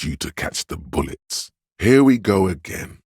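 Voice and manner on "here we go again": louder, higher exasperated outburst. Acted. Reacting to a lost gun, exasperated. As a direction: exclaim it in exasperation, voice jumping up.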